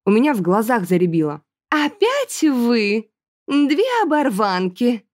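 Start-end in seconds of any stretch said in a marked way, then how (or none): 1.7-5.0 high, very slow sneering aristocrat; angry hiss. A narrator's reading. Aristocrat sneering at two ragged girls, slow hiss. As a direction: spit the insult with contempt. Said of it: "зло прошипела она".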